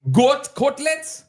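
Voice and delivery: high, slow disbelieving question; incredulous. Real, not acted. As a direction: goat cutlets in total disbelief.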